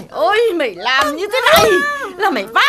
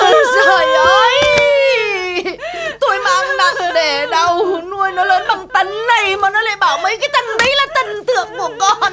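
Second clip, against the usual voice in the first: wailing lament; 2 semitones higher than usual. Acted. Mother wailing about raising her daughter. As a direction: wail like a wronged mother.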